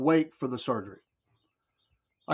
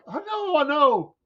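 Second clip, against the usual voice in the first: put-on meek kid voice; 13 semitones higher, slower than usual. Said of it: "I was like".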